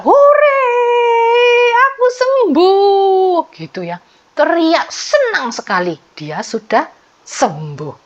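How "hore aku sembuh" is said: joyful shout. Retold or imitated. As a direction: shout for joy at being healed.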